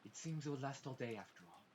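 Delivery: lightly voiced old butler; a hint of a calm elderly butler. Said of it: "I have no idea what voice I'm doing for Genji".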